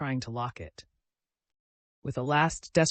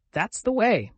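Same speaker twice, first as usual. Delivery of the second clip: higher, louder instructing voice; showing how; 8 semitones higher, 6 dB louder than usual. A narrator's reading. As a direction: demonstrate with gusto. Showing how to wrap cloak.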